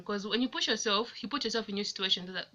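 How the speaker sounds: rushed, slightly tumbling delivery; talking fast. Real, not acted. Vlogger urging viewers to push themselves, talking fast. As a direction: hurry through the advice. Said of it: "I'm talking so fast".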